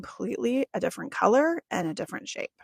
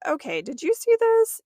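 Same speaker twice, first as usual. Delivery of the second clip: high, loud excited question; bursting to compare what you both saw; 10 semitones higher, 7 dB louder than usual. Retold or imitated. Two healers after a session, excitedly checking what they saw.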